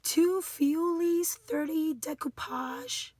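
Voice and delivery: very slow, sounding out each word; halting foreign-word reading. Real, not acted. Crafter reading foreign instructions she doesn't know, halting. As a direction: puzzle slowly through unfamiliar foreign words.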